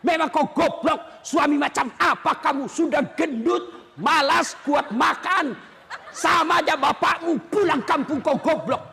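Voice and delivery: hammed-up angry wife insulting husband; cursing wife. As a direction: spit the insults out in mock rage. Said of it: "tidak boleh maki-maki". (istri memaki suami, marah yang dibuat-buat)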